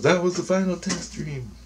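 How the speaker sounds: high-pitched imitation of a woman; dream woman's voice. She tells the dreamer about the test, high imitated voice. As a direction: announce it in a high put-on voice. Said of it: "she goes".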